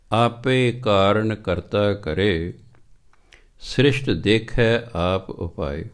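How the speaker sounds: slow, measured chanting of the verse; scripture recitation. Acted. Preacher reciting Sri Raag verse to the sangat, slow chant. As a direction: draw out each word of gurbani.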